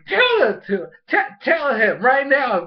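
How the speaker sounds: high, urgent cheering-on; egging someone on. Retold or imitated. Cheering Bonnie on, acted.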